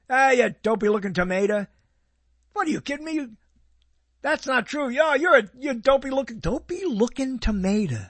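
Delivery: lightly voiced mocking neighbor, a bit brash; a hint of the old neighbor's teasing put-down; imitating the neighbor. Neighbor teasing somebody as a dopey tomato, light mock voice. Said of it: "That's how he said it".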